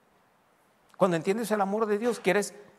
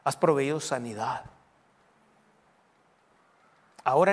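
everyday prayer; 4 semitones lower than usual. Shown as a demonstration. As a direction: speak privately to a good Father. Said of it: "Así empiezo orando todos los días".

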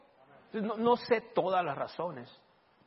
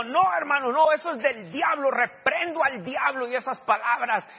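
higher, louder, slowing into a rebuke; retold rebuke; 8 semitones higher, 7 dB louder than usual. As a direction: rebuke the devil with authority. Preacher rebukes the devil.

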